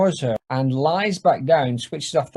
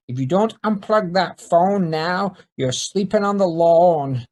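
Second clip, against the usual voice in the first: enraged threat; 4 semitones higher, 3 dB louder than usual. Acted.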